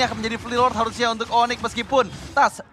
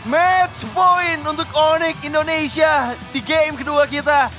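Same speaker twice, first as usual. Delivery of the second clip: announcer voice; 3 semitones higher than usual. Real, not acted. Caster announces match point.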